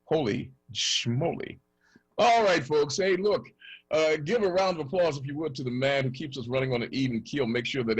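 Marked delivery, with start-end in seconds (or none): 2.2-5.2 pumped announcer. Real, not acted. Host hypes up the intro.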